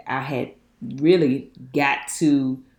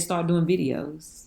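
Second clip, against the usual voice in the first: voice of God; slower than usual. Retold or imitated. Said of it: "I heard a voice that said".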